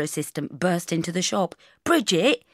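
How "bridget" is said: mild raised call; yelled. Acted. Camera assistant bursting into the shop, a mild yell. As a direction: call out the name urgently, rising. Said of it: "he yelled".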